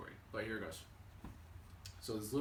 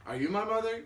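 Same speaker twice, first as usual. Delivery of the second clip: high, loud little-bird voice; raised, hopeful baby bird; baby bird's question; 9 semitones higher, 7 dB louder than usual. Acted. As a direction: ask it high and eager, like a lost chick. Baby bird asks the chicken.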